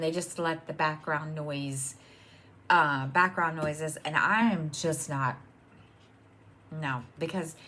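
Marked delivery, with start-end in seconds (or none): none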